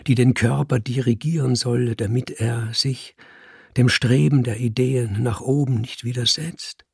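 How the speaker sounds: lofty, stern Robespierre monologue; stern revolutionary. Acted. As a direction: preach the idea, cold and solemn. Robespierre's long speech to Lucille.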